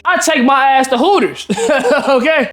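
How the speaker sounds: high, amused announcement breaking into laughter; laughing delivery. Real, not acted. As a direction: crack yourself up as you say it. Gleeful punchline of his story.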